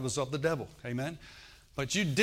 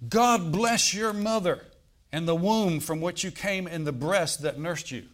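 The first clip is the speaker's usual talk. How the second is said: calling out from the crowd; 4 semitones higher, 4 dB louder than usual. Retold or imitated. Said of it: "a woman in the crowd called out".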